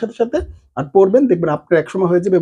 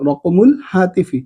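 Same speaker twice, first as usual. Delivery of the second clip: slow, falling রকমুল হাতিফি; slow demo; slower than usual. Shown as a demonstration. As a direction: repeat the term slowly. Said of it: "এরপরে". (ধীরে রকমুল হাতিফি)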